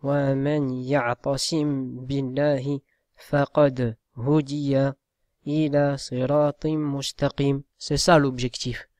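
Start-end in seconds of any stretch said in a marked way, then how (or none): 0.0-7.6 measured, chanted verse recitation; Quran recitation. Acted. Teacher reciting a verse to students, chanted reverently.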